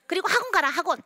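high, loud mock order; imitated mother loudly ordering the kid to go; nagging mom. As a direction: push the kid off to cram school. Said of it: "뭐라고 얘기하죠?".

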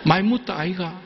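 Moses pleading in a light Gyeongsang dialect; a hint of a weary Gyeongsang dialect. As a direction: toss it off in a Gyeongsang dialect, half joking. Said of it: "경상도 버전으로 만약에 모세가 얘기를 했다면".

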